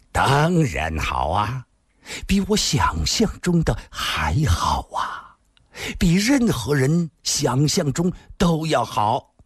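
slow, drawn-out lover's praise; indulgent, stretched-out admiration; amorous flattery. Acted. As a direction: savour each phrase for your lover. Lover flatters woman in his arms.

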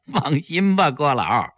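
short laugh rolling into the words; chuckling. Acted. Official chuckling to reassure the old poet. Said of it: "齐长鹏笑着说".

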